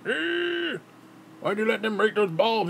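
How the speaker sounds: high, strained mock yell at the kid; angry dad yelling. Dad scolding his son over broken bulbs, high mock yell. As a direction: bark it like an enraged father. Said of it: "he's like".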